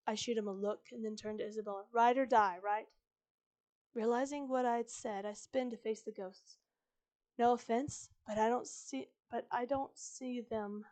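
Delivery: hurried story narration; reading too fast. Real, not acted. Narrator reading Isabella scene aloud, hurrying through it. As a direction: rush through it without letting the beats land. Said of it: "I'm reading this too fast".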